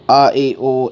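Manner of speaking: vowels read Urdu-style as "آ اے او"; non-Arabic vowel reading. Retold or imitated. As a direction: read "آ اے او" with an open e and o, not pure Arabic i and u. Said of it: "ایسے پڑھا ہے".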